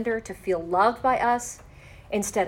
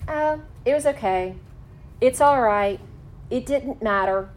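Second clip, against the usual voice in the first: dismissive brush-off; 3 semitones higher than usual. Shown as a demonstration. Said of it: "invalidates the statement".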